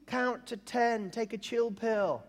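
high, drawn-out whoa, then easing God down; parody Abraham. Acted. Abraham telling an angry God to calm down, mock soothing. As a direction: talk someone down in a high, stretched voice. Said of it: "that's a parody".

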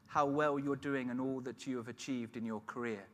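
put-on mild old lady praise at a wedding. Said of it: "an old lady, said".

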